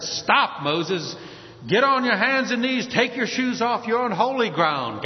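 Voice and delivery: a hint of God ordering Moses to halt; commanding God. Preacher voices God warning Moses at the bush, commanding.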